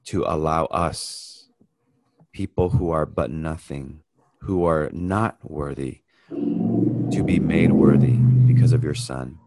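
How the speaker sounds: reverent, measured prayer voice. Real, not acted. Pastor opening a Bible study in prayer, reverent.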